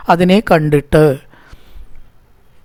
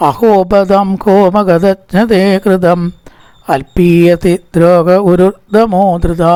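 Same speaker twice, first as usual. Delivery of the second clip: slow, deliberate chant of the metre; metrical recitation; slower than usual. Shown as a demonstration. Teacher shows students how to read the special metre slowly. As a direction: lay out the rhythm of the metre syllable by syllable. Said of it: "ഒരു പ്രത്യേക വൃത്താണ് കേട്ടോ അവിടെ ഒരു സൂക്ഷിച്ചു വായിക്കേണ്ടത്".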